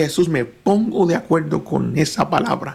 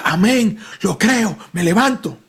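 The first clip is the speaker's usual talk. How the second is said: higher, firmer Amén, lo creo; hopeful amen; 7 semitones higher than usual. Retold or imitated. Friend on the third day, higher and hopeful Amén. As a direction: lift Amén high with new faith. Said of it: "Ya el tercer día decía".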